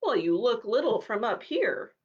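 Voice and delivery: lofty, looking-down tone; snobbish. Acted. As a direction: say it with a sniff of superiority. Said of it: "said the horse a little snobbishly".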